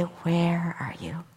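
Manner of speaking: slow, breathy whispered question. Retold or imitated. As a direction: whisper it slowly, with a lift at the end. Husband's whispered question repeated.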